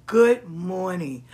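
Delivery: slow drawn-out greeting. Shown as a demonstration. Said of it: "and welcome to the Back Porch Conjure".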